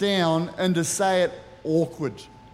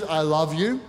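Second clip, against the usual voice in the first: tender I love you; 3 semitones lower than usual. Shown as a demonstration. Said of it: "One is".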